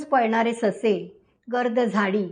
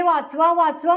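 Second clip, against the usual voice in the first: mock cry for help; 4 semitones higher than usual. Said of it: "म्हणून ओरडायला लागले".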